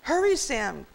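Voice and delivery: high, anxious urging; pleading. A narrator's reading. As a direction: plead with a brother to move. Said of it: "Karen pleaded".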